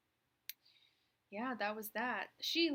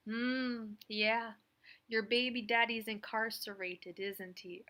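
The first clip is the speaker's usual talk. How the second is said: knowing mock Jamaican psychic; Miss Cleo Jamaican accent; 5 dB louder, slower than usual. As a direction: read the caller's fortune in a Jamaican accent. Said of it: "she'd be like".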